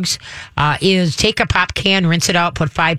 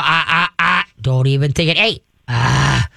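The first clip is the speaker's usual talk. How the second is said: growl; 2 semitones lower than usual. Shown as a demonstration. Trainer shows how to correct a dog, growl. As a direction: growl out short warnings. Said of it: "learning to use that growl".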